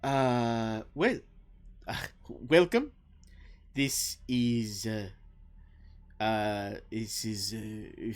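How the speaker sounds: put-on halting French-accented welcome; not flawless Common. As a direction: grope for words with a French accent. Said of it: "perhaps not flawless".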